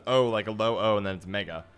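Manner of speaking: "O" as a separate letter, then "Mega"; split pronunciation. Shown as a demonstration. Streamer explaining his reading of a viewer's name, split pronunciation. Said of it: "my understanding on how it was".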